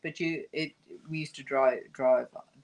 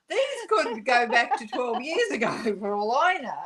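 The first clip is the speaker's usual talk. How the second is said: laughing while talking; 4 semitones higher than usual. Real, not acted. Laughing at old envelopes.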